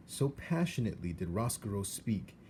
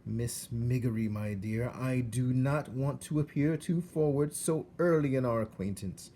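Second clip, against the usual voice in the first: courtly, oily rat voice, a bit louder; suave rat; 4 semitones higher, 3 dB louder than usual. Acted. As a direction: flatter her with silky politeness. Roscoe courts Meg politely.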